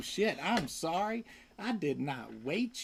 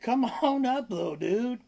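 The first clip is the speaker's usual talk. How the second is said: coaxing pet talk; 5 semitones higher than usual. Real, not acted.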